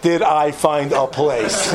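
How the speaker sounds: slow and drawn out, proud of himself; smug proud reply. Retold or imitated. Husband boasting to his wife about the apartment, slow smug. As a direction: savour it as if the answer is obvious. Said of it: "I'm like".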